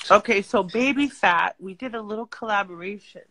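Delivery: talking around a retainer; words slurred by a retainer; wearing a retainer. Real, not acted. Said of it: "I have my retainer in. So I'm talking funny".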